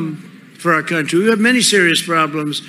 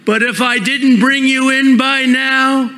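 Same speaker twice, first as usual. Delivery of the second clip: tender woman; 4 semitones higher than usual. Acted. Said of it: "she cried".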